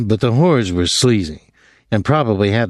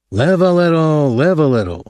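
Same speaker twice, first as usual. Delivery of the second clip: impatient; 6 semitones higher than usual. A narrator's reading. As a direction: push him to stop dithering. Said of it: "Thomas said impatiently".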